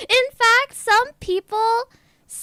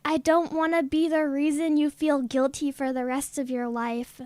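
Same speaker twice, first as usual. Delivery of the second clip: lower, sincere quoted message; lightly voiced earnest forgiveness, pitched down; retold forgiveness; 6 semitones lower, 3 dB quieter than usual. Retelling an online friend forgiving a lie, low and sincere.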